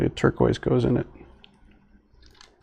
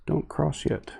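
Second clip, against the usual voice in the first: crossing guard voice; 4 semitones higher, 5 dB quieter than usual. Retold or imitated. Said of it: "Sound like one of those crossing guard automated voice".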